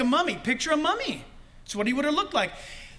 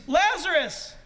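raised, louder call by name; mild retold shout; 5 semitones higher, slower than usual. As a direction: call it out, short of a full shout. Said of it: "loud shout".

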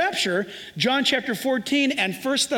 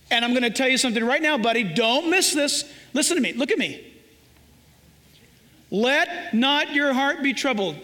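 firm loving parent. Acted. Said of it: "you say just like this".

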